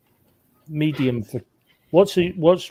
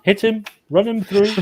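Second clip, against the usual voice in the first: high, loud call to attack; urgent urging; 8 semitones higher, 6 dB louder than usual. Real, not acted. Player egging on companions against a guard, urgent and loud. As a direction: urge them on, raised and loud.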